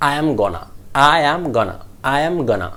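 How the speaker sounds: "going to" shortened to "gonna"; connected speech. Shown as a demonstration. Teacher drills the phrase to start with, connected. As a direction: join "am gonna" in one go. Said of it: "start with".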